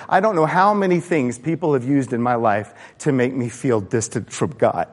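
fighting back real tears. Real, not acted. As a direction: voice softening toward crying. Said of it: "I hate crying".

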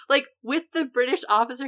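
ordinary talk

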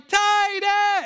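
very high, urgent holler; retold scream. Dad trying to get his son's attention, screaming. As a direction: yell the name to get through to him. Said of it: "I'm screaming, I'm clapping".

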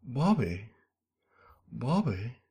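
lightly voiced cartoon dad; a weak Texan-dad call; Hank Hill calling Bobby. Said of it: "terrible Hank Hill impression".

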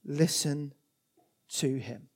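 dropped to a whisper; whispered command; hushed. A narrator's reading. End of heavenly quote.

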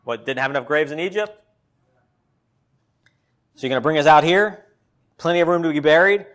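mock-sarcastic paraphrase, rising on the last lines; imitating the people's snide complaint; sarcasm. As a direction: needle them with dry irony. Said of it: "It's sort of the sarcasm".

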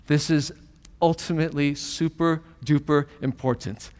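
a hint of breezy, jokey emphasis; casual overstatement. Shown as a demonstration. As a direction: say it like a casual modern slang phrase. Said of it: "He wouldn't say it like that".

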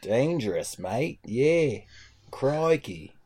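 drawn-out Aussie catchphrases; mock Australian accent. Podcaster jokes about danger, mock Australian accent. Jokey Steve Irwin voice.

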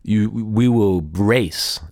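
a hint of Vin Diesel's deliberate calm; Dom's voice. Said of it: "And this is how he talks".

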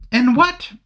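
mock indignant nobleman; Anthony voice. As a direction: slip into Anthony. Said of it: "oh, sorry, that's me".

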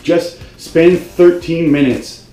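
fed-up rant, pitch climbing; real anger. Real, not acted. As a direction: lose patience and lay down the law. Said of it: "I'm getting really mad right now".

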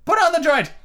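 very high, loud order; Red Queen ordering the waiters; royal command. A narrator's reading. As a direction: bark the order at the servants.

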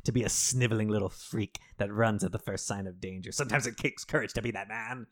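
lightly voiced lawyer, grave and pleading; a hint of a solemn lawyer gripping his lapels; half-hammed speech about cowardly courage; mock earnest lawyer. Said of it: "grabs him by the lapels and is like".

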